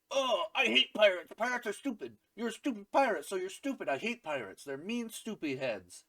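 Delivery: high-pitched petulant whining; put-on high tantrum voice; mock childish rant. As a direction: rattle off insults like a cross little kid. Voices Nami's childish rant, retold.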